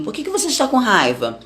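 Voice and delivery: a lightly voiced parent-like God calling out his son; God questioning Cain like a father, lightly voiced; gently scolding God. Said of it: "E Deus tá perguntando pra Caim".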